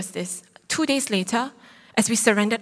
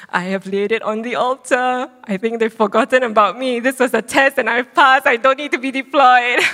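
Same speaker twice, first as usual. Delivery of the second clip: gleeful inner voice; 6 dB louder than usual. Retold or imitated. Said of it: "I just thought to myself".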